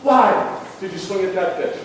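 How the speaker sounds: high, loud yell at his daughter; angry coach dad yelling; retold scream. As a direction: shout her name in frustration. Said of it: "and I scream".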